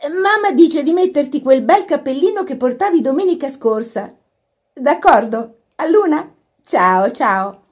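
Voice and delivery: put-on high, animated girlish voice; bright phone relay. A narrator's reading. Laura relaying mother's message to Kitty, high and animated. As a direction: pass a message on cheerily.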